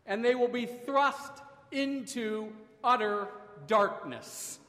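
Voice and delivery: solemn, unhurried scripture reading. Acted. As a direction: read the prophecy gravely from the pulpit. Reads scripture from the pulpit.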